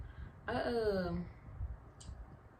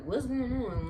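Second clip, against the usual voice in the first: mildly confused, pitched higher; retold confusion; 5 semitones higher, much slower than usual. Asking the panicking mom, mildly confused. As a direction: imitate a bewildered question. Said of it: "I'm confused".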